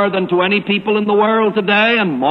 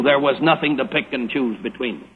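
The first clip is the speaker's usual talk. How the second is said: dropped lower, softer, with settled finality; from a divine point of view; 6 semitones lower, 3 dB quieter than usual. Shown as a demonstration. Preacher recasting the line from God's view, lower and softer. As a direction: lower and softer on the second take. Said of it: "from a divine point of view".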